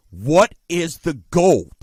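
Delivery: slow "goal" in a Chalmette New Orleans accent; Chalmette accent slip. Real, not acted. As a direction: let "goal" slip into local Chalmette vowels, drawn out. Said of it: "I sound like Chalmette a little bit sometimes".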